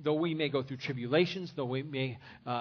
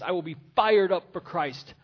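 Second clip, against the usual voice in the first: louder, ringing declaration of faith; pastor's rousing cry to the church; loud preached vow; 2 semitones higher, 8 dB louder than usual. Acted. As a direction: shout the vow to the rafters. Repeated vow at climax.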